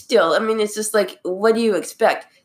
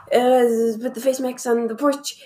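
higher, mock British old lady; British accent; 5 semitones higher than usual. Retelling the news lady for friends, mock British accent. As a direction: lightly imitate a British lady, pitched up. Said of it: "why she has a British accent now".

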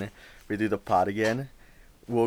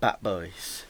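mumbled with food in mouth; mouth full; 4 semitones lower, 7 dB quieter than usual. Real, not acted. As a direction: talk through a mouthful of brownie. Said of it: "brownie in my mouth".

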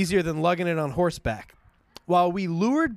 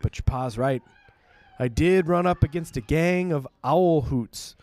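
put-on folksy country accent; 2 semitones lower than usual. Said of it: "a folksy country way of talking".

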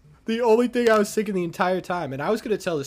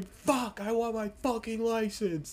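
higher, softer mock whine; petulant moaning; 5 semitones higher, 5 dB quieter, slower than usual. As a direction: imitate a sulky woman lying on the floor. Woman moaning on the floor.

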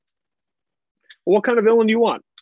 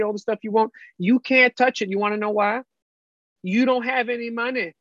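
lightly voiced Southern grandma; a hint of a firm grandma lecture; stern grandma. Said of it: "you're not my grandma".

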